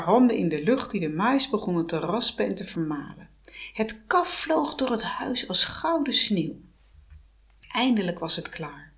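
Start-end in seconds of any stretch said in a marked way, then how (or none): 3.7-8.9 hushed storyteller whisper; whispered narration. A narrator's reading. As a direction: breathe the words like a secret. Verteller fluistert sprookjesbeeld. (gefluisterd vertellen)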